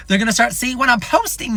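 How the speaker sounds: laughing through the words; nervous laugh. Real, not acted. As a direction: giggle it out, a bit embarrassed. Nervous laugh about family.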